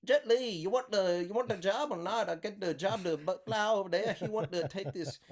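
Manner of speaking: high, insistent mock Asian accent. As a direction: press the point as a prank caller in a thick put-on Asian accent. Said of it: "she heard me do the accent".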